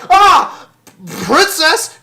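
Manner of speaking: high, loud pained shout; mock cry for help. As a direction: yell for the princess as if being mauled. Acts man attacked by orc.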